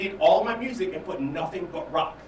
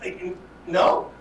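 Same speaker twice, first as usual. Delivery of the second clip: whispered disbelief; 13 semitones higher, slower than usual. Retold or imitated. Retold incredulous whisper.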